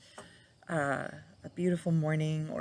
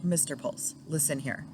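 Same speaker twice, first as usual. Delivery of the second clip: mock scolding; 3 dB louder than usual. Scolding late husband, laughing.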